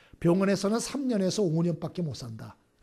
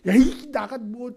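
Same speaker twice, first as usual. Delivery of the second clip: mock outburst, louder and higher; retold angry cursing; 5 semitones higher, 6 dB louder, slower than usual. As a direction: drag out an exasperated curse, then break off. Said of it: "막 욕을 퍼부었대요".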